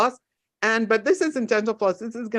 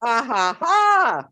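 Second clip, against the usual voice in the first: jolly ha ha ha; 2 semitones higher, much slower than usual. Shown as a demonstration. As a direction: chant ha ha ha upward. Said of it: "repeat after me".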